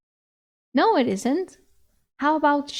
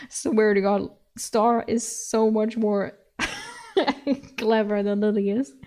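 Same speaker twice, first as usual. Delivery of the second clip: usual speaking voice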